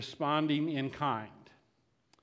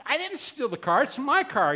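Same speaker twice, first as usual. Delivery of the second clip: high-pitched, louder retold protest; indignant denial; 8 semitones higher, 5 dB louder than usual. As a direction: play the wrongly accused driver objecting. Accused driver protesting to officer.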